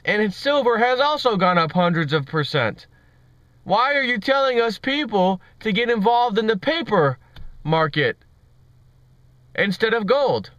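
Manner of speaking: mock Indian accent, mildly indignant; badly faked Indian accent of a questioner; terrible Indian accent. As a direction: challenge them in a put-on Indian accent. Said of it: "enough of my terrible Indian accent impression".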